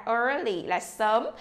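"early" with a stretched ER; long er. Shown as a demonstration. Teacher stretches the ER sound in "early". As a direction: draw out the ER in "early". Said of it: "kéo dài âm er ra".

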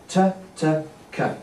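three even syllables ta, ta, ka; tongue ta, ta at the front and ka at the back. Shown as a demonstration. Teacher showing a triplet: ta, ta, ka, evenly. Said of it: "two at the front and one at the back".

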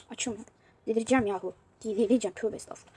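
breathless whispered tövbe estağfurullah; whispered sigh. Real, not acted. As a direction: whisper it in exasperation. Muttering at stuck game. (fısıltıyla tövbe estağfurullah)

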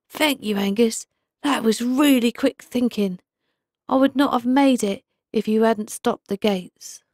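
a hint of a warm old fish; grateful pike. A narrator's reading. Pike thanks the owl.

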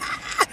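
short high squeal; excited scream. Retold or imitated. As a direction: imitate your own excited shriek. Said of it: "I'm screaming like".

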